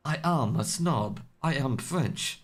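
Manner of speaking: a snobby Frenchman, badly faked; bad French accent. Caster jokes about French snobbery, bad French accent. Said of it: "That was a really bad French accent".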